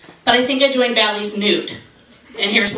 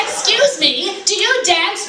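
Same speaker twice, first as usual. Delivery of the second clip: polite asker; 7 semitones higher, slower than usual. Acted. Acted dialogue mocking song.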